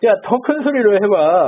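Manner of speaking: high, drawn-out goading; mock taunting. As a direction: egg them on in a teasing, stretched voice. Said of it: "막 이러면서 놀려요".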